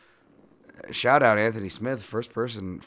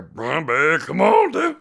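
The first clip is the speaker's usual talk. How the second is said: cheering call; 7 semitones higher, 10 dB louder, slower than usual. Acted. Cheering the fighter again.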